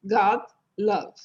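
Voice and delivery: "God, love" with the same throaty A in both; unrounded A in "God, love"; matching vowels. Shown as a demonstration. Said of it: "É a mesma pronúncia do love".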